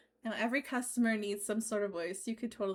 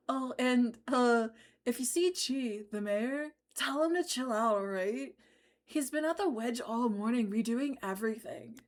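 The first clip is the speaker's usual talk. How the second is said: surfer dude voice. Acted. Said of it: "That is such a great bro voice".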